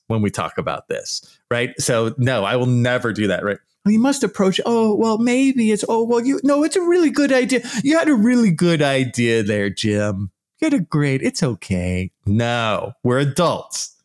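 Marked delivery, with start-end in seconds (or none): 3.8-12.1 put-on much higher, sing-song soothing a child; hammed-up fake encouragement to Jim; mock patronising. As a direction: pat Jim on the head with your voice. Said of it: "treating people like children".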